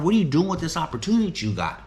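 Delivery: urgent mock challenge; challenging his guys. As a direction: push them hard to face the question. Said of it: "That's what I ask the guys".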